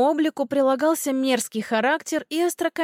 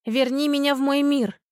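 mildly raised, urgent cry; cried out; 3 semitones higher than usual. A narrator's reading. Heroine finishes her spell as the door gives way, crying out. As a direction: call out the spell's last line with some force. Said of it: "Я выкрикнула последнюю строчку".

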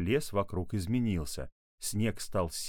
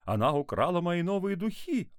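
high-pitched, horrified exclamation; aghast; 10 semitones higher, 3 dB louder than usual. A narrator's reading. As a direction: cry out in shock as mother. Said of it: "ахнула мама".

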